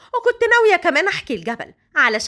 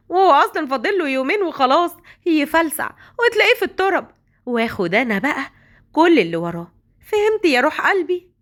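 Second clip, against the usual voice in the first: lightly raised, coy scheming woman; 3 semitones higher than usual. Acted. Woman to her lover about the old man, coy and scheming. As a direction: purr it like a gold-digger sweetening her lover.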